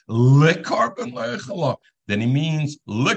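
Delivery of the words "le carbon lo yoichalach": le carbon lo yoichalach, le with a short shva vowel, said louder; shva reading. Shown as a demonstration. Teacher stresses the shva reading of le carbon lo yoichalach for students. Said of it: "if he says it with the shva".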